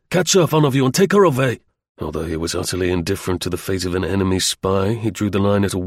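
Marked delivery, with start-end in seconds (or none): 0.1-1.6 raised, urgent command; brisk officer calling out; snapped order. Acted. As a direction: snap orders at the soldiers. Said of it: "snapped the lieutenant".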